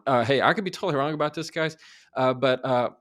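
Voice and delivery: rushed, hedging mock unsure; quick, timid mock hedge; mock hesitant. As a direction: fumble it out nervously. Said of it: "you going".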